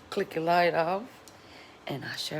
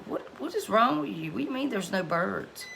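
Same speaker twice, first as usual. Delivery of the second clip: high, disbelieving mock exasperation; retelling a baffled reply to her husband; incredulous retort; 4 semitones higher than usual. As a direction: act baffled at him, pitch up.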